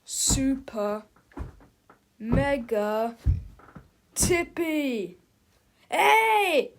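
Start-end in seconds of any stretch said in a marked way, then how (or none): 5.9-6.7 high, loud startled shout. A narrator's reading. Big Tippy shouts as his giant double appears. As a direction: yell out in sudden alarm. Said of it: "shouted Big Tippy".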